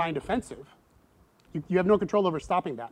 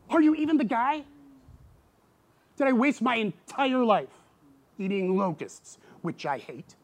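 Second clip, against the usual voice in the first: higher, louder, anguished questioning; doubting John; 8 semitones higher, 6 dB louder than usual. Retold or imitated. John in prison doubting Jesus, anguished and loud. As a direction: voice a despairing prisoner asking what it was all for. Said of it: "he's gotta be thinking".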